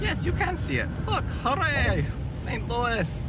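high cheerful hooray; excited. Real, not acted. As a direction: cheer like a happy tourist. Cheering at the arch.

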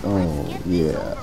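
deep, low announcer voice; low smooth radio announcer; Shadow Stevens voice. Pretend. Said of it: "This is my Shadow Stevens voice".

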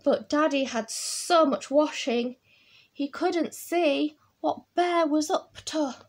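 put-on animated read-aloud for children; picture-book storytelling. A narrator's reading. Reading about busy Daddy, animated storytelling. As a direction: lean on the key words for little listeners.

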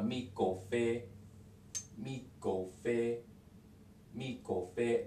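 "mi go fe" slowly and clearly; careful, drawn-out "mi go fe"; slow full form. Shown as a demonstration. Teacher gives the full form slowly before the fast one. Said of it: "when they say it fast".

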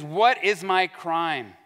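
slow, measured indignant demand; a touch of acted anger, drawn out; mildly angry. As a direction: act out a perturbed man demanding answers. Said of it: "So he's angry. He's a little".

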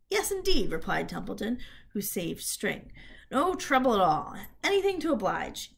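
loud, eager rat voice; a rat too keen to help; obliging rat. Acted. Templeton answers.

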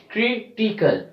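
"critical" with strong first syllable CRI; stress on CRI. Shown as a demonstration. Teacher showing third from last syllable, stressed "CRItical". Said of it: "We are stressing on C R I".

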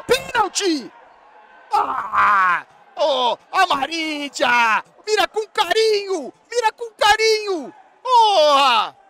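high, very loud, drawn-out yells; full-voiced fan outburst; frantic match shouting. Real, not acted. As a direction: scream at the pitch in alarm. Penalty moment in live match.

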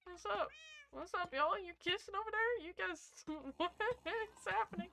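playful squeaky teasing; excited high voice. Real, not acted. Teasing mobs kissing, high voice.

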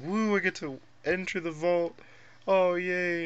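high, excited little cheer; cheery dweller voice. Retold or imitated. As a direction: voice a happy game character.

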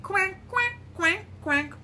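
high quacks stepping down; mother duck. Pretend. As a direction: quack brightly like a duck, dropping after two. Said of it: "Mother duck said".

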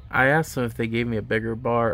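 speaking with lip held open; finger pulling lip down. Real, not acted. Seen 3: Finger pulls lower lip down showing braces while speaking.

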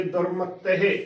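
ਦੁਰਮਤਹਿ as dur-mat-teh, doubled t; doubled consonant. Shown as a demonstration. Teacher shows the added addhak, doubled-consonant pronunciation. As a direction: hold the t in ਦੁਰਮਤਹਿ, ending on -teh. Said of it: "ਅੱਧਕ ਲਗਾ ਕੇ".

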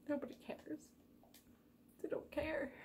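breathy high whispered aside; quiet aside. Real, not acted. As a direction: toss it off under your breath. Self-deprecating aside.

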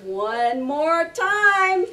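loud punchy combo calls; calling combos. Shown as a demonstration. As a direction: bark out each strike. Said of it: "We're gonna do a jab, jab, cross, hook, and palm strike".

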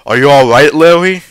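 loud, high, alarmed question; urgent concern, pitch climbing to the end. A narrator's reading. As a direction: call out in sudden worry. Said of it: "he asked in alarm".

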